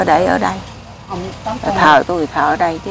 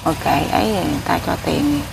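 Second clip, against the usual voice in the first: softly retold private advice; confidential retelling; 6 dB quieter than usual. Wife passes on advice given to the builders, softly and confidentially. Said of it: "nói nhỏ tôi vậy đó".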